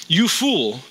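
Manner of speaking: firm, emphatic pronouncement; abrupt interruption. Acted. God to the man building barns, abrupt and emphatic. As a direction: cut in firmly with a verdict. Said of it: "Jesus abruptly interrupts his very own parable".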